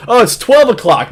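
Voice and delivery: mocking quote. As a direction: parody his eager clock watching. Mocking the guy's schedule.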